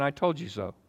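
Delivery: mock smug told-you-so; preacher mocking a scolding God; smug taunt. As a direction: sneer it like a petty god. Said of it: "That's what we think God does".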